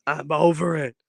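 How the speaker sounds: a strained, whiny moan; whiny fed up. Real, not acted. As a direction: complain like the cold has worn you out. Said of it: "I'm so over this cold".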